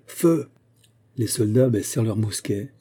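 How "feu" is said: high, short call to fire; shouted command. A narrator's reading. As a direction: give the firing order as a narrated cry. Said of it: "cria le commandant de la Balancelle".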